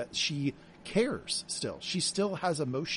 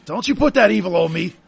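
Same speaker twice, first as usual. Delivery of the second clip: louder, higher playful protest; mock dramatic plea; 5 semitones higher, 12 dB louder than usual. Real, not acted. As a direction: ward off the jinx with a mock-dramatic cry. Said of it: "mock superstitious plea".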